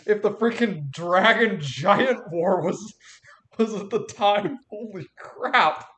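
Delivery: loud, slow astonished exclamation; amazed. Real, not acted. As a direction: blurt it in disbelief. Player shocked at ancient history.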